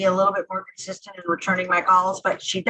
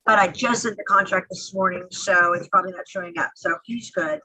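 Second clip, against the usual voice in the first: echoey, hollow phone line; like talking from inside a cave; 3 dB louder than usual. Real, not acted. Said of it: "sound like you're in a cave in Afghanistan".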